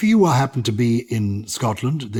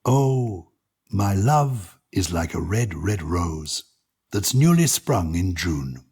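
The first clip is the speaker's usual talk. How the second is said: poem reading. Acted. Host reading Burns poem to co-host, tender recital. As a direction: read it like a fond love letter. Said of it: "I'm going to read it with my English accent".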